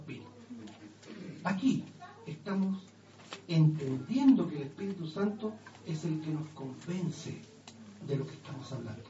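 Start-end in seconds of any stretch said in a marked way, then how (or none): none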